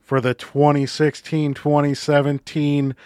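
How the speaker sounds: slow drawn-out arena announcer; a hint of a hockey announcer. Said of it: "My hockey announcer voice is not very good".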